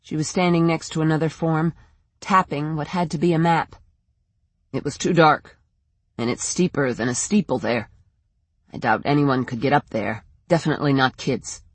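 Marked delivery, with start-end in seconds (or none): 4.7-11.6 lightly voiced man, pitched lower, sceptical; a lower voice for a reluctant searcher; objecting in a slightly put-on low voice; doubting man.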